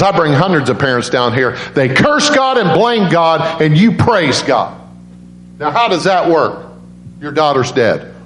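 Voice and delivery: high-pitched, baffled confrontation; incredulous challenge. Retold or imitated. Nurse challenging a bereaved father who praises God, baffled challenge. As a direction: act out a nurse who cannot understand it.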